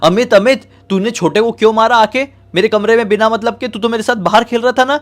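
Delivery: high, loud angry shout. Acted. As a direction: yell the accusation at the sick boy. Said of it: "क्या चिल्ला रहे हो". (गुस्से में ऊँची आवाज़ में चिल्लाना)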